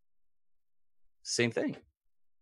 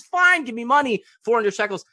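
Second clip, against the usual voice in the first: Ephron conceding; 10 semitones higher, 4 dB louder than usual. Retold or imitated.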